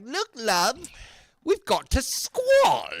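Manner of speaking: high, loud, slow grand declaration; theatrical announcement. Retold or imitated. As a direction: announce it like a Victorian dame. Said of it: "I'm gonna be like".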